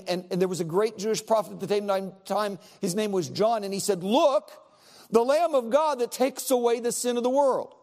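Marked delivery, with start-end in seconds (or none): 4.0-7.8 proclaiming. Retold or imitated. Preacher voicing John proclaiming Messiah.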